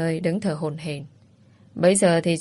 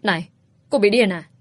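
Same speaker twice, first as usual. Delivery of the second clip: said loud; 3 semitones higher, 3 dB louder than usual. Acted. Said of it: "Cô kéo Linh ra rồi nói to".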